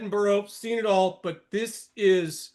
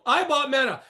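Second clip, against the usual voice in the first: higher mocking quote; mock boast; 5 semitones higher, 3 dB louder than usual. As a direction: imitate a bragging buyer. Mimics bullish buyers boasting.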